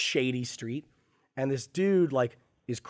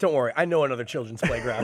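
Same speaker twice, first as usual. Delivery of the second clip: laughing tease; 4 dB louder than usual. Retold or imitated. Teasing requote with laugh.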